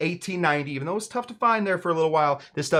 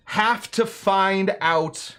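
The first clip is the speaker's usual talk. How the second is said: Barbadian accent; 4 semitones higher, much slower than usual. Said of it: "Barbadian accent".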